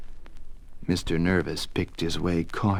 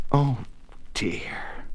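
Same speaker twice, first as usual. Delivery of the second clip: kindly; 4 semitones higher, 5 dB quieter than usual. Acted. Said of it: "for he was a kindly vagabond".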